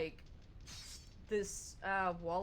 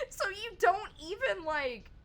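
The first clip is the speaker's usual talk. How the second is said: indignant retort; 4 semitones higher than usual. Retold or imitated. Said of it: "And we're like".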